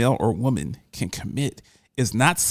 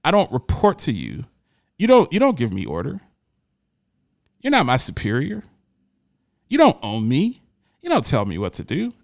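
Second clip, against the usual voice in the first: calmly. Retold or imitated. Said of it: "And I said calmly".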